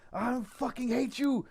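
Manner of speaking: high, slow Russian snarl; imitating an enraged Russian; Russian accent. The Russian punching the wall, in a high Russian accent. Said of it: "And he's going".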